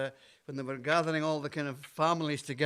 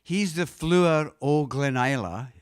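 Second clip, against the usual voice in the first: Scots dialect line; 4 dB louder than usual. Shown as a demonstration. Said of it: "the first line is".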